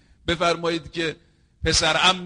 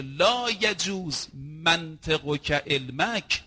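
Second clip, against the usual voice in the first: very slow recitation; much slower than usual. Shown as a demonstration. The preacher repeats the hadith to his audience, very slow and solemn. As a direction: stretch لا یجوز منطقک out word by word, very slow. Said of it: "چقدر روایت زیباست".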